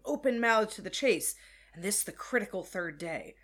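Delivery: intense, brooding literary reading; dramatic reading. Acted. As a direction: read it like a haunted soliloquy. Reads Starbuck's speech aloud.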